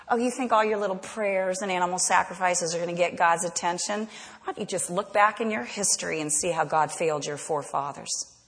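a mild hissing sneer, lightly voiced; whisper-like scorn at their prayers. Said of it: "See the hiss?".

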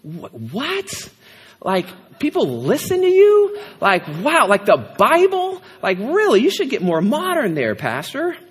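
exaggerated incredulous questions, pitch jumping up; teasing mock astonishment; mock disbelief. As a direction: act stunned someone listens to a preacher. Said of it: "It's like".

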